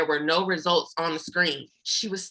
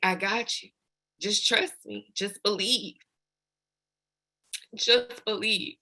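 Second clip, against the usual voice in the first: reassuring; 4 dB quieter than usual. Retold or imitated. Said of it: "God just kept telling me".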